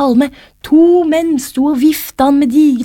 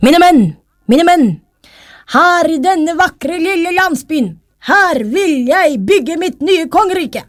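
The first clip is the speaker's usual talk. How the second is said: king calling out; 7 semitones higher than usual. A narrator's reading. King announces his new kingdom to his men, calling out. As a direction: call to your troops as a king, high and projected. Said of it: "og så ropte han".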